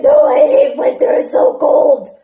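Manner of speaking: put-on high, loud whiny little girl; upset daughter. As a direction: wail it like a sulky kid. Mom voices upset daughter.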